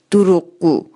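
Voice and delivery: mock-hurt daughter calling her father a liar; sulky child accusation. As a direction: stamp out دروغگو like a hurt child.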